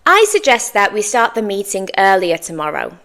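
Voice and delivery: fluent, linked in one run without pauses; natural fluency. Shown as a demonstration. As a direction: say it at natural conversational pace. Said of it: "say it in my natural fluency now".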